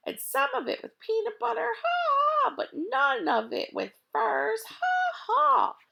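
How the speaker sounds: high, teasing laughing list. Acted. Mac taunts the unhappy thieves, laughing high. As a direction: relish the joke with big laughs. Mac's roll call of candy.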